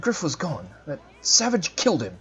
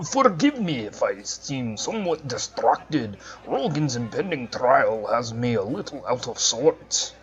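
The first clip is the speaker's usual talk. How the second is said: put-on Scottish accent. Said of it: "Gotta get that Scottish accent going".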